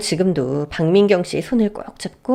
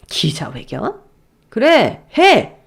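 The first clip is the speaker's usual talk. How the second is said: daring shout; much slower than usual. Acted. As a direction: go ahead, I dare you. Father dares him. (그래 해보라며 소리치는 아버지)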